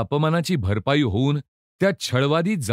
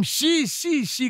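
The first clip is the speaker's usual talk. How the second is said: disgusted cry; 13 semitones higher, much slower than usual. A narrator's reading. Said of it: "करून ओरडला".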